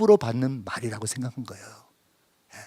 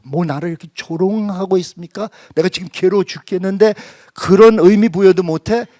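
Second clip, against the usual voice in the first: louder and higher, bitter protest; indignant outburst; 5 semitones higher, 8 dB louder than usual. Retold or imitated. Hurt father protesting to God that He mocks his grief, loud and bitter. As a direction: fire back as if being mocked. Angry retort at mocking God.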